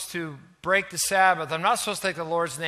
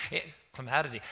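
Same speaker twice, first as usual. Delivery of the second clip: stumbling laugh; 6 semitones lower, 8 dB quieter, much faster than usual. Real, not acted.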